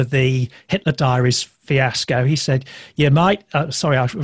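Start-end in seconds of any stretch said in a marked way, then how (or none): 2.9-3.4 a hint of Australian accent; lightly voiced Australian boss. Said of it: "doing an Australian accent".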